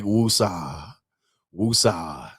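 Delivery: low, drawn-out mock-soothing chant; calming mantra. Calming himself after seeing complaints on the internet, soothing. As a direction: breathe it out low, settling yourself down.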